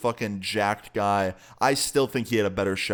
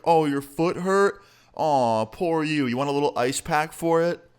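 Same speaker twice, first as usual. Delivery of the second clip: mocking; 5 semitones higher than usual. Big guy clowning the friend over his hurt foot, mock sympathy. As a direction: coo at him like a baby, dripping sarcasm. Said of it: "just absolutely clowning my friend".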